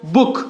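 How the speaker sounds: "बुक" with a quick, brief OO; short OO. Shown as a demonstration. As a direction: keep the vowel in "बुक" short. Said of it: "जल्दी से ऊ". ("बुक" में छोटा ऊ)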